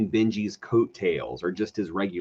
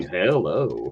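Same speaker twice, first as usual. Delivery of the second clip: Texas charmer; 6 semitones lower than usual. Pretend. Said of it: "doing the same thing".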